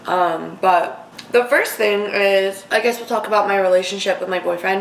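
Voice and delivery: talking while chewing; words round a mouthful of food; mouth full. Real, not acted. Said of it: "talking with my mouth full a lot of this video".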